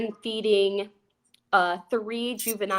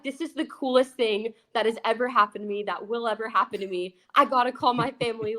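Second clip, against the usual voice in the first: mock excited; faster than usual. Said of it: "And I was freaking out".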